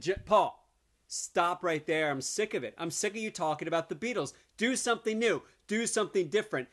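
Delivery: hammed-up telling-off of a bored friend; mock exasperated rant. Scolding Paul in mock exasperation.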